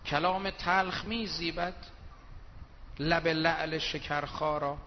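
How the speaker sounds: slow, drawn-out recited verse; gentle Persian verse recital; poem recital. Acted. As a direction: savour each word of the verse.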